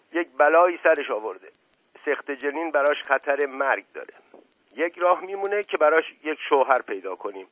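a lightly voiced, firm and serious Asadollah Mirza; steady and grave, a touch of mockery underneath. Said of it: "با قیافهٔ خیلی جدی و صدای محکمی گفت". (با صدای محکم و جدی)

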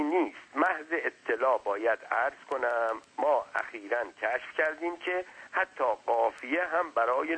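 lightly voiced pedantic explainer; wordy servant. Servant lecturing his master on rhetoric, mildly pedantic.

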